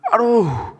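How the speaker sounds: very high acted "aduh"; mock pained yelp; cry of pain. Shown as a demonstration. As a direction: wail it like a suffering patient. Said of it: "ah gitu, jangan".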